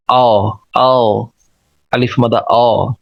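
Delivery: आओ with a full, rounded aw; full rounded vowel. Shown as a demonstration. Teacher models the vowel in document, full and rounded. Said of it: "पुर करके".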